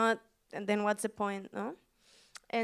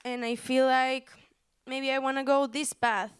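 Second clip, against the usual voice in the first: still teary; 3 semitones higher than usual. Real, not acted. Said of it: "I'm really crying".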